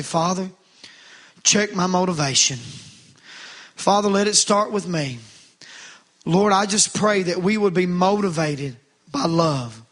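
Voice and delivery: calm lead-in prayer voice for the congregation to echo. Shown as a demonstration. Preacher leads the church in prayer, calm and steady. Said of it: "I want us to say".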